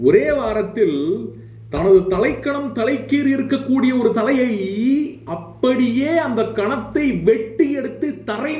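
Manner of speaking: measured, theatrical literary Tamil oration; mock-formal declamation. Commentator mocking a reality show contestant's comeuppance, mock-formal declamation. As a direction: declaim it like a grand speech, with dramatic pauses.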